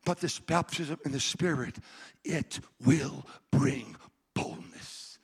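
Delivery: ordinary talk, nothing marked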